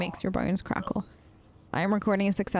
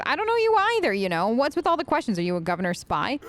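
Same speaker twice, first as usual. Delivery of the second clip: glare and demand it; menacing; 3 semitones higher than usual. Shown as a demonstration. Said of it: "flash a menacing gaze".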